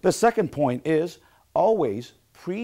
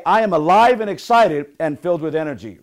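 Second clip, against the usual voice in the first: punchy affirmation, said louder; motivational affirmation; 7 dB louder than usual. Shown as a demonstration. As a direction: model the chant for a group to repeat. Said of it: "I want you to say".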